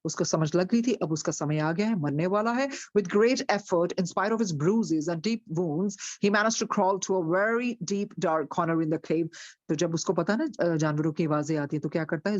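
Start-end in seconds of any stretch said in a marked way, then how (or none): 3.0-9.3 slow, deliberate storybook reading; story narration. A narrator's reading. Teacher reads the story slowly to her class. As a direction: read it out slowly to the listeners.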